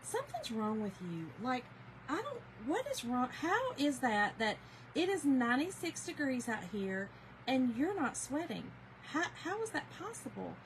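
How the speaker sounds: a mild imitation of the husband asking how she isn't sweating; baffled husband. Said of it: "And he's like".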